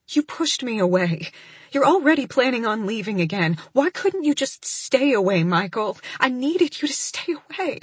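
rising, pained, pleading voice; tearful plea. Acted. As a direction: plead through held-back sobs. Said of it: "in a broken whisper".

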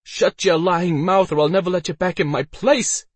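high, loud scolding shout; Elsa's angry high-pitched yell; furious yell. A narrator's reading. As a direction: yell at the drunk to shut up. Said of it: "Elsa yelled".

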